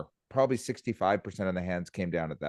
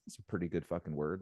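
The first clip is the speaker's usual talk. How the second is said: a muttered aside, much softer; quiet aside; 3 semitones lower, 10 dB quieter than usual. Retold or imitated. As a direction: drop the voice low for the quip.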